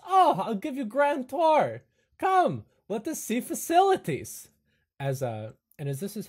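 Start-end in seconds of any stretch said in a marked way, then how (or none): 0.1-4.5 high, loud broken-English host; Igor voice. Acted. Igor offers the family a grand tour, high and loud. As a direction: sweep them into the tour. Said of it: "Igor says".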